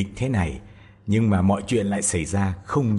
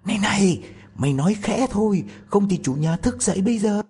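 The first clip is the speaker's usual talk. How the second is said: scared robber; 11 semitones higher, faster than usual. A narrator's reading. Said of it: "sợ hãi bảo nó".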